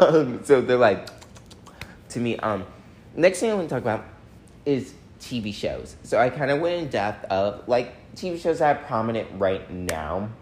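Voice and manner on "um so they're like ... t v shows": talking around whitening strips; whitening strips in mouth. Real, not acted. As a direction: speak with strips on your teeth.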